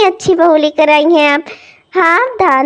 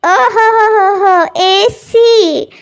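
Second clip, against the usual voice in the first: mocking drawl; 3 semitones higher, much slower than usual. Neighbour mocks the AC demand.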